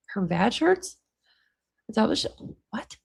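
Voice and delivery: laughing disbelief. Real, not acted.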